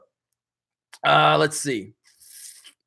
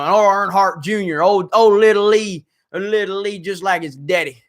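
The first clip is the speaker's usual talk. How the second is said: put-on Alabama redneck accent; rowdy Alabama good ol' boy; 2 semitones higher than usual. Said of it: "Alabama redneck accent".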